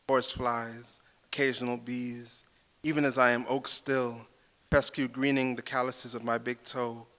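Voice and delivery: poetry reading. Acted. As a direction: read each image like a spell. Poet reads her poem.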